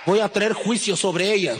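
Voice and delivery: lenta, más aguda y fuerte, solemne; voz de Dios. Acted. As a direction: anuncia el juicio con peso divino. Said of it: "Dios dice". (Dios anuncia su juicio, voz lenta y fuerte)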